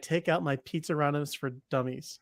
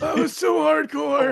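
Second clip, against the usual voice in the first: awed reaction; 10 semitones higher, 6 dB louder, slower than usual. Real, not acted. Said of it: "player reacting to beheading".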